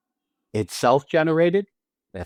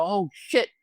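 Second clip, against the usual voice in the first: higher, rising mock glee; feeding off her excitement; 6 semitones higher than usual. Shown as a demonstration. Husband answering his excited wife, higher and gleeful. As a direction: catch her excitement and toss it back. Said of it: "working off your excitement".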